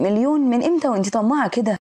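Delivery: mildly outraged disbelief; a touch of incredulous anger; freaking out. Acted. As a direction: burst out in indignant questioning, without shouting. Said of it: "فبيتجنن".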